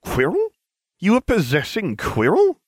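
high, incredulous questions with sharp rises; astonished double-take; shocked. Acted. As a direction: pitch leaps up in disbelief. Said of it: "nearly dropped my wand in shock".

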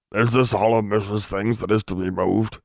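lightly voiced elf servant; altered-timbre elf voice, mild dismay. A narrator's reading. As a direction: ask as a slightly daunted house-elf. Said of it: "looking with a little dismay".

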